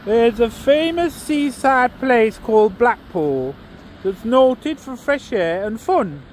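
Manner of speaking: a put-on, hammy northern English accent for the whole poem; terrible northern English accent. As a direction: read it like an old Lancashire monologue, accent laid on but not polished. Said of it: "excuse the terrible accent".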